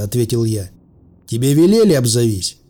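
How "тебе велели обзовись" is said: threatening order. Acted. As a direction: order the hidden stranger to answer. Armed threat to hidden stranger.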